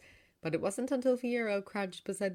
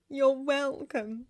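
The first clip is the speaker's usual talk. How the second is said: moved reply; 8 semitones higher, 5 dB louder, much slower than usual. A narrator's reading. Sister answers the tearful hug.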